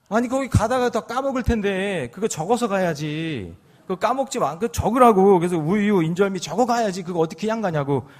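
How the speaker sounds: hammed-up old man scolding his wife; mock scolding husband. Grandpa scolding grandma to write it down, mock angry. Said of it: "화를 내는 거예요".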